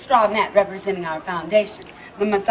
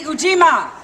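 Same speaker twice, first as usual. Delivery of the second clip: Ujima called out loud as a cue for the crowd; called out word; 3 semitones higher, 6 dB louder than usual. Shown as a demonstration. Leading the crowd, calling out Ujima. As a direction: lead the audience in calling out Ujima. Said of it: "okay, ready?".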